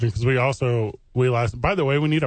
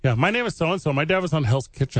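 mock kid intro; 3 semitones higher than usual. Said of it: "You sound just like him".

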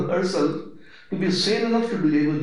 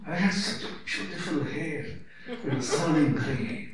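chuckling, softer mock grief over grey hair; laughing mock lament; 2 semitones lower, 6 dB quieter than usual. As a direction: laugh through a pretend complaint.

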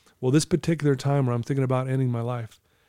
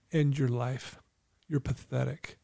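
quieter, grim voice in the head; inner voice; 7 dB quieter, slower than usual. Retold or imitated. Troubled student's own head turns on him, quiet inner voice. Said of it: "that voice in my head says".

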